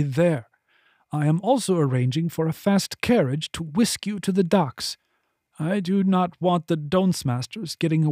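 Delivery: voluptuary ordering the escort, composed and firm; commanding voluptuary. Acted. Voluptuary instructing Henley, calm and commanding.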